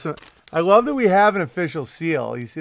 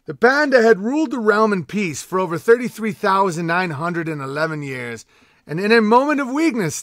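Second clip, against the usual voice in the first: raised, declaiming storyteller voice; mock-epic lore reading to the king; grand proclamation read; 2 semitones higher than usual. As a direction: proclaim it like a royal herald. Continues mock-epic letter reading.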